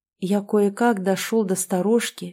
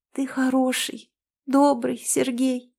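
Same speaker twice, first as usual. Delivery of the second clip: high, tearful and soft; sobbing softly; 5 semitones higher than usual. A narrator's reading. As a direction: speak through tears, gently. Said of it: "всхлипывая, проговорила она". (со всхлипами, тихо)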